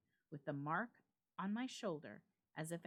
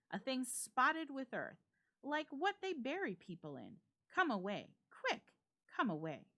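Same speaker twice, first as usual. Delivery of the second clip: frightened urging; 6 semitones higher, 4 dB louder than usual. Acted. Friend urges flight in terror.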